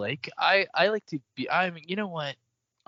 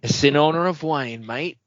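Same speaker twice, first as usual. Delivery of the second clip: put-on Wayne's accent. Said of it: "Don't know why I'm doing this accent".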